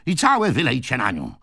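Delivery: high, heated order; impetuous yelling. A narrator's reading. Old man orders a bucket over his sister, yelling. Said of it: "wrzasnął impetyczny starzec".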